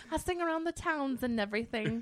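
lightly imitated talent-show hopeful; quoted American Idol contestant. Singer quoting an American Idol clip, lightly mimicked and amused.

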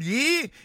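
"ye" lifted and set apart; single out "ye" with a lift; stress on ye. Shown as a demonstration. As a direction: hit the word "ye" on its own. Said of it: "I emphasize that word".

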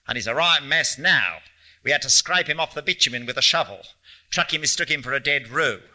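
lightly voiced outback policeman, emphatic; a hint of a blunt country cop. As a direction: report the grisly facts with punchy matter-of-factness.

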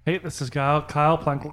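strained words while choking on water. Real, not acted. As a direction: speak through choking on water. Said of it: "I'm choking on water right now".

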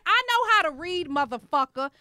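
a defiant clapback at the stranger; defiant comeback. Retold or imitated. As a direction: fire it back, offended. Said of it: "I said".

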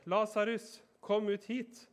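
calling out high and loud to the tomb. A narrator's reading. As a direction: call Lazarus out of the grave, full voice. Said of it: "ropte han med høy stemme". (høyt rop)

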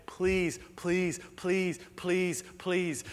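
repeated begging. Acted. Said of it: "begging earnestly".

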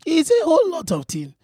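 put-on advising in a Yoruba accent. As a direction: counsel like a Yoruba man. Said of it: "mine is a Yoruba man".

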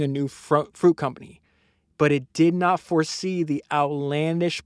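emphatic, deliberate reading; book narration. Acted. Host reads how the merger flaw backfired, book narration. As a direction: read it out with weight on key words.

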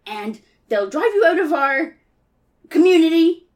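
high, fussy scolding rabbit; indignant Rabbit. Acted. Grabbed Rabbit threatens to tell everyone, indignant. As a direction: scold in an outraged, lifted voice.

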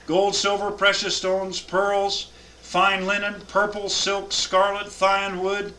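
solemn scripture reading to a class. Acted. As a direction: read the verses out with weight. Reads list from scripture.

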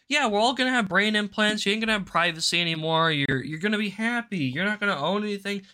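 quick, mocking sing-song of a smug official; mock cheerful announcer, rattled off; mocking WEF voice. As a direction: sneer it like a bureaucrat promising paradise. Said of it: "being like".

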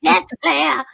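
wailing impression of a singer; imitating a singer. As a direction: sing it cracked like that singer. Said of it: "singing voice".

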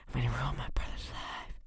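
leaning in to whisper; breathy sly whisper into the mic. Pretend. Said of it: "whispering into the mic is so weird".

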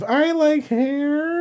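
high, slow, dopey sing-song answer; mock teen interviewee. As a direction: play the clueless teen at the interview.

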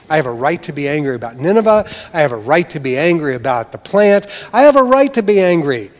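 defiant Jonah. Acted. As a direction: Jonah digging in, angrier each time. Jonah voiced defiantly insisting.

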